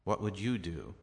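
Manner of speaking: "you" picked out in the question; emphatic "you"; stress on you. Shown as a demonstration. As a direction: lean on the word "you". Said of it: "They can also be added".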